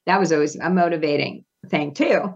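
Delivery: quick, dry sarcasm; facetious. Real, not acted. Guest mocks four-hour all-hands meetings to host, facetiously. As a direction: toss it off as mock praise. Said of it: "She says facetiously".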